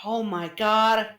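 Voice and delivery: slow, drawn-out amazed exclamation; awed gasp. Acted. Man gasping as he sees out of the cave, awed. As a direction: let it out slowly in wonder. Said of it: "gasping as".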